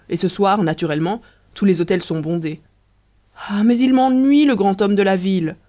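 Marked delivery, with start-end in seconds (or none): 3.5-5.6 fed-up wife groaning about the statue unveiling; annoyed outburst. Acted. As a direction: snap with irritation at the great man. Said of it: "fit Riquette".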